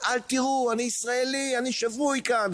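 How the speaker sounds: צרחה גבוהה ונואשת מתוך הירי; screaming for his life under gunfire; retold scream. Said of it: "בצרחות". (צורח בגבוה ובייאוש)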